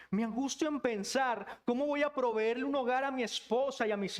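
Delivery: mounting worry of an overburdened provider; anguished lament. Acted. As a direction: pile up the worries before God. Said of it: "¿Cómo suena tu lamento".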